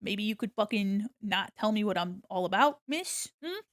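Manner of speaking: mock polite, then snide; imagined sassy comeback. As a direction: fake courtesy turning into a jab. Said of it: "I didn't say that".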